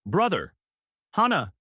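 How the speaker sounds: high, loud overjoyed calls; shout. Acted. Reunited sister calling to her brother, loud joyful shout. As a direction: cry out to him loud and high. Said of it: "she shouted".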